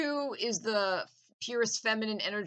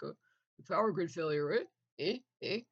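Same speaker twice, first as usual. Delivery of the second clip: put-on Canadian accent. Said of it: "with a Canadian accent".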